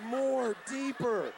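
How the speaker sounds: hammed-up lover asking, slowly; lightly hammed woman's demand; mock woman in bed. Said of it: "hear a girl say this".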